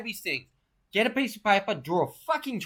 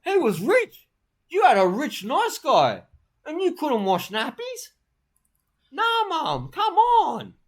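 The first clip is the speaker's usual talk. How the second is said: scolding yell; 7 semitones higher, 4 dB louder, slower than usual. Retold or imitated. Scolding his mum in retelling.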